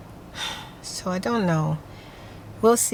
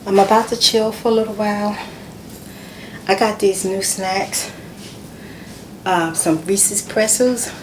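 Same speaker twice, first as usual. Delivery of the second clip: a little winded, words pushed out between breaths; puffing a bit, just in from the heat. Real, not acted. Just home from the heat, telling viewers she's winded. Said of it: "I sound like I'm out of breath".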